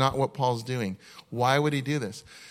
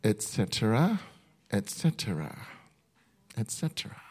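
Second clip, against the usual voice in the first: fading away; 3 semitones lower, 5 dB quieter than usual. Acted. Trailing list, fading to nothing.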